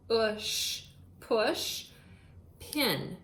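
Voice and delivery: push, push, pin said slowly and apart; teacher dictation. Shown as a demonstration. Teacher breaking push pin into its parts for kids, deliberate. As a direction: give push twice, then pin on its own. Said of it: "We worked with the word push".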